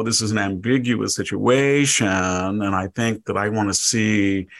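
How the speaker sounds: lightly voiced nasal professor mockery; mock the fussy academic, a touch nasal; a hint of a nasal, pompous professor; nasally academic mockery. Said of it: "your nasally, uh, academic, uh, mockery voice".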